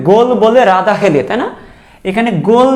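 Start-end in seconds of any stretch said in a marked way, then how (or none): 0.1-1.2 slow, deliberate and a bit louder, every word set apart; slow mnemonic. Shown as a demonstration. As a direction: spell the rhyme out for students. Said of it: "মনে রাখবা কীভাবে?". (ধীরে, জোর দিয়ে ছড়াটা বলা)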